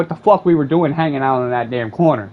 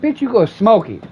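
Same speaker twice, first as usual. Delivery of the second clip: higher, punchy brush-off; mock scolding; 9 semitones higher, 4 dB louder than usual. To the beggar claiming hunger, a mock yelled brush-off. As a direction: snap back at the beggar, half-shouted.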